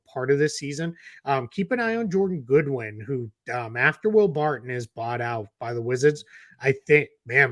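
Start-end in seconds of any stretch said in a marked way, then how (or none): 3.8-7.5 slipping into a Boston accent; a Boston accent when excited. Real, not acted. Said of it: "my Boston accent came out there".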